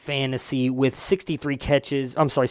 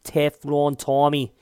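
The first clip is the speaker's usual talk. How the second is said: a slow, drawn-out mock New England accent; hammed-up New England accent, slowed right down; slower than usual. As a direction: stretch out Teflon Tommy in a bad Boston accent. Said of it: "I like saying his name like that".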